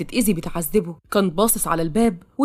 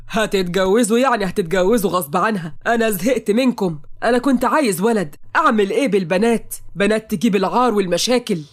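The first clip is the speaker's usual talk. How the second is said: louder bitter rant; angry ranting; 3 dB louder than usual. Acted. Saad raging at his wife and daughters about the forced marriage. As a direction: slam every word down.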